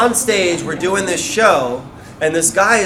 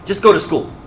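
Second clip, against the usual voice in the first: frustrated; 2 semitones higher, 3 dB louder than usual. Retold or imitated. Stylist fed up with an eager follower, mildly frustrated. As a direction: cut them off, then tell them simply. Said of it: "I think he got frustrated with me".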